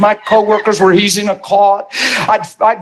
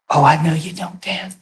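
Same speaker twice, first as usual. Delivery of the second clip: softer, lower tender reassurance; loving whisper; 4 semitones lower, 5 dB quieter than usual. Retold or imitated. Holy Spirit comforting the crying young Dan, tender and soft. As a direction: gently comfort a frightened new believer. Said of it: "lovingly whispered and said".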